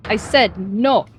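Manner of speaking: slow, firm angry no; angry snap. Acted. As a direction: snap it out angrily. Sailor snaps at questioner.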